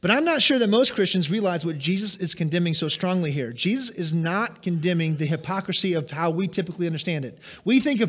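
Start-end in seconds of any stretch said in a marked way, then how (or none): none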